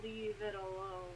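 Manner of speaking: low, slow, menacing voice; a deep voice in the head, slow; gravelly voice. A narrator's reading. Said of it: "a deep, gravelly voice go".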